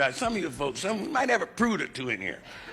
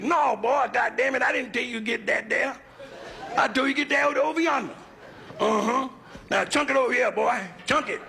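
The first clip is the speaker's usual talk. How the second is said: Southern white boss; 8 semitones higher than usual. Retold or imitated. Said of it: "They said".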